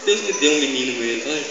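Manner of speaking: imitated chuckling delight; Abraão. Abraham looking at his newborn son, imitated laughing wonder. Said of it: "começava a rachar o bico".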